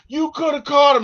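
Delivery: high, loud exasperated protest; imitated accusing complaint. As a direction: mimic a robbed man blaming a bystander. Acting out the robbed guy's complaint.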